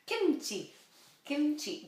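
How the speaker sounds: high, loud eager kimchi; delighted repeat. Real, not acted. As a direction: call out a word you love. Excitedly repeats a familiar word.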